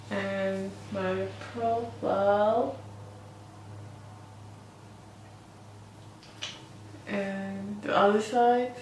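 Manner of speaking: slightly slurred speech through a jaw splint; splint in mouth. Real, not acted. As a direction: talk around a splint in your mouth. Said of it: "I'm still not clear because I have the splint in my mouth".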